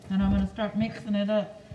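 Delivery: talking through a face mask; words muffled behind a mask. Real, not acted. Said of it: "hard to understand me with this mask on".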